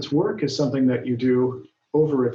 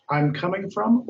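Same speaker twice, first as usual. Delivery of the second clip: wrong option read; 6 semitones higher than usual. Shown as a demonstration. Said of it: "Marisa says".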